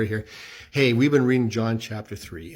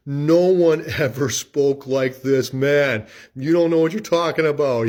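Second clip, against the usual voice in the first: awed officers; 2 semitones higher, 5 dB louder than usual. Retold or imitated. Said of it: "And the officers answered".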